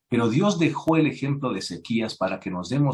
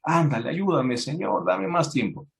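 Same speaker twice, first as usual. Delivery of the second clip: higher, pleading mock whine; mock crying plea; 4 semitones higher than usual. King Hezekiah weeps to God for more time, mock pleading. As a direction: beg like a spoiled child. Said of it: "Ezequías llora".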